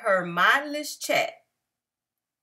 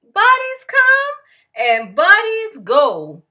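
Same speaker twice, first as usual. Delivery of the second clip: cheery refrain; 5 semitones higher, 7 dB louder than usual. A narrator's reading.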